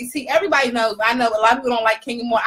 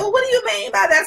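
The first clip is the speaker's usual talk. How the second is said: retold challenge; 7 semitones higher than usual. Retells questioning the woman.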